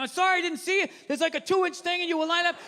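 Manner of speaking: acted defensive excuse; trying to explain. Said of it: "I was trying to explain".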